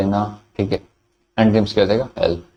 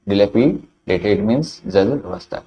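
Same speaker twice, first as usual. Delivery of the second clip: slow drill; much slower than usual. Shown as a demonstration. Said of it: "teacher repeats drill slower".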